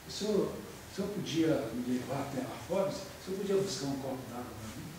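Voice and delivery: soft, low, courteous question; polite request tone. Shown as a demonstration. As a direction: soften the order into a gentle request. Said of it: "é o tom de voz".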